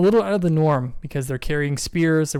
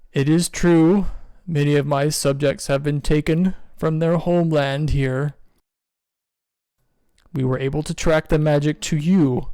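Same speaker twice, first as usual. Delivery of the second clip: stern king. Acted. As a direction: accuse solemnly as the king. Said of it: "King Wen says".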